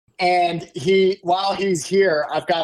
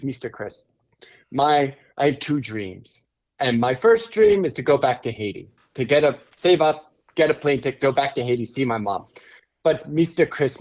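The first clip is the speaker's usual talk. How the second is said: teary-eyed; 3 semitones lower than usual. Retold or imitated. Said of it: "and he got teary-eyed".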